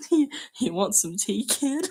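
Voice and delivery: hammed-up British accent; attempted British accent, giggly. Shown as a demonstration. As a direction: try a silly British accent. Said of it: "What does a British accent sound like?".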